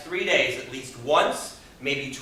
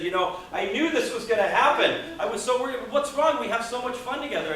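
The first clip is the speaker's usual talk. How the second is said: shocked and horrified; 8 semitones higher than usual. Retold or imitated. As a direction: pitch shooting higher, panicky pleading. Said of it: "he was shocked and horrified because he said".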